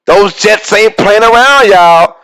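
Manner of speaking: high, hyped exclamation of disbelief; excited outburst. Retold or imitated. Reacting to the Jets' pick with a high excited outburst. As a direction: blurt it out like you can't believe the pick. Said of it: "I'm like".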